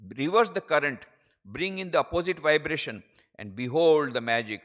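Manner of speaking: slow, forceful oratorical command; emphatic slow declamation; preaching. Acted. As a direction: urge them on, phrase by measured phrase. Declaims quotation in slow English.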